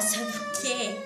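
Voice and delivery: high, loud laughing squeal. Real, not acted. Girl laughing and squealing to viewers.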